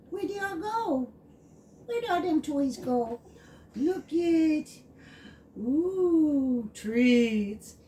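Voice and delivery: high, teasing sing-song; playful doggy-talk. Real, not acted. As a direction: tempt the puppy with treats. Teasing puppy with treats.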